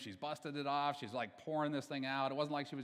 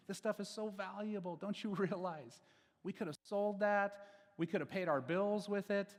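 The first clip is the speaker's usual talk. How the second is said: indignant onlookers; 4 semitones higher than usual. Retold or imitated. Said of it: "they're thinking and they're saying".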